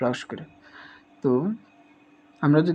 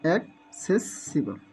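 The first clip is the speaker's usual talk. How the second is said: half-slow syllables; 3 dB quieter, much slower than usual. Shown as a demonstration. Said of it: "syllable ভেঙে ভেঙে".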